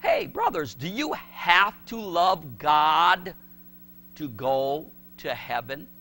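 slow, drawn-out question to the pastors; slow, pointed question; asking the pastors. Retold or imitated. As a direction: lay it out slowly for the brothers. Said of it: "I said".

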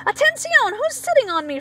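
very high, startled frog cry; high squeaky frog cry; froggy cries. Acted. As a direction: squeal out from under the pile. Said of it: "Froggy cries".

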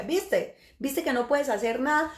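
lightly mock the listener's failure; a touch of I-told-you-so; retold taunting spirit. Spirit gloats at the exorcist.

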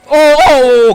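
loud rising whoops at the screen; excited whoops. Real, not acted. Gamer to viewers, loud excited whoops. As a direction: cheer the move out loud. Thrilled by game move.

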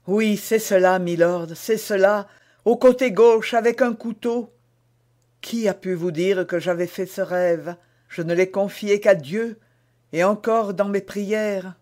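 breathless recognition of the same dream; startled queen. A narrator's reading. Queen amazed the duke knows her dream, startled.

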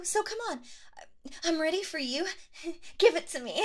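ordinary talk, nothing marked

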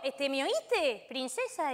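put-on slow, seductive Argentine accent; slow smooth Argentine flirting. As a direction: charm her slowly in an Argentine accent. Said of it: "el acento argentino".

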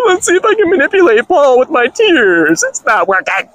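high, whimpering mock crying voice; fake-sob it like a girl trying to guilt a man; mock teary girl. Mocking a girl's fake tears.

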